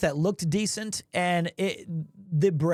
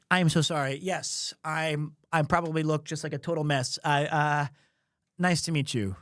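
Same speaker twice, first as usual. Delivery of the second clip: lower-pitched embarrassed politeness; retold sheepish apology; 5 semitones lower than usual. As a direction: apologize meekly, collecting yourself.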